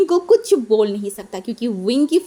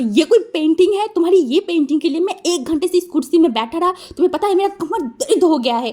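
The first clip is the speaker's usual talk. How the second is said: mild mock anger; 5 semitones higher than usual. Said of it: "गुस्से में देखे and बोले".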